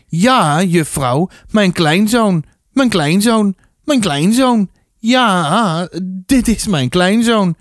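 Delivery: high, sing-song repetition, each phrase swooping down; gleeful Arie playing grandpa. A narrator's reading. Arie tells the desk lady about his grandson, high and over-eager. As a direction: voice an over-eager old man, high and insistent.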